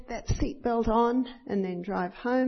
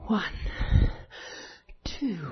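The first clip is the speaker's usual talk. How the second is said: deep breathing. Shown as a demonstration. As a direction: count with a long breath between numbers. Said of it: "and breathe very deeply".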